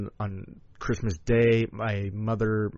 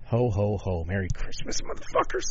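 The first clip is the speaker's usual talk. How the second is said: mock Santa. Mock Santa greeting ending the rant.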